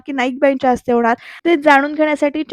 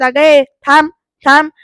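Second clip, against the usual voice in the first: mild, louder mock shout; retold yell; 3 semitones higher, 6 dB louder than usual. Grandmother stopping the two from going inside, retold yell. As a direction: call out a halt as a narrated grandmother. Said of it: "नानी ओरडून म्हणतात".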